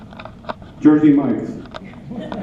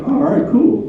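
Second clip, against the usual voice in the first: mock casual; 10 semitones higher than usual. Husband pretending to go along with his wife's gift cards, high and breezy. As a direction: voice jumps high on a breezy all right cool. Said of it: "I'm going".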